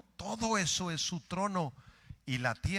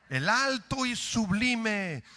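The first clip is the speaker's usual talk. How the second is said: slow reading; 6 semitones higher, 5 dB louder, slower than usual. Shown as a demonstration.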